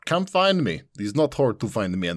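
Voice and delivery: high, playful come-and-get-me call. Real, not acted. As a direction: tease the viewers to come find you. Playful invitation to join stream.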